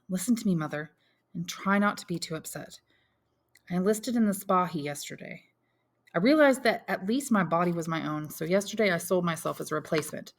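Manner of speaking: son briskly taking stock; lightly voiced young Albert.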